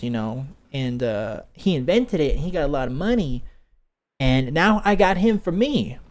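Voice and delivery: high, insistent Southern twang; Southern woman. Retold or imitated. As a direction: pitch it up with a little Southern lilt. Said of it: "making her Southern a little bit".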